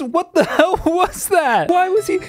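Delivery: high-pitched, laughing disbelief; incredulous. Real, not acted. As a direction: demand an explanation, pitch soaring, key words stretched. Stunned by the bizarre voice glitch.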